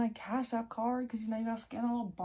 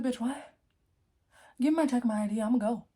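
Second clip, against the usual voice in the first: louder, exasperated comeback; fed-up retort; 5 dB louder, faster than usual. Retold or imitated. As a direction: snap back at the clerk, done with it. Retold angry reply to bank clerk.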